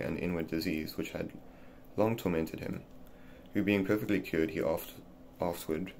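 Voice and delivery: put-on measured, careful reading of an old essay; reading aloud. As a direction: read it steadily like a formal book passage.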